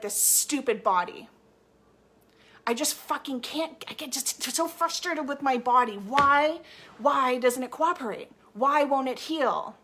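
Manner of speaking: imitating a client's exasperated outburst at her body; angry at body. Coach imitating a client cursing her body, frustrated. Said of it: "they get really angry".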